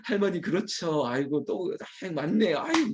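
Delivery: chuckling, acted humouring replies; smiling, half-hearted agreement. Care home director humouring a grandmother while working, chuckling agreement. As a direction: play along with a laugh while half listening. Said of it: "표정은 웃으면서".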